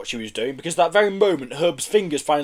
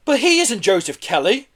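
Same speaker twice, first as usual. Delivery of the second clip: higher protesting cry; 8 semitones higher, 4 dB louder than usual. A narrator's reading. Joe leaping out of the van, crying out. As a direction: burst in to object. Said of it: "cried Joe".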